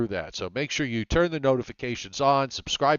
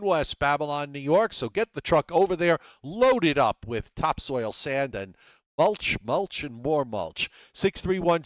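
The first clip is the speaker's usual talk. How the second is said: sponsor read; 3 semitones higher than usual. Acted. Reads the hardware sponsor plug.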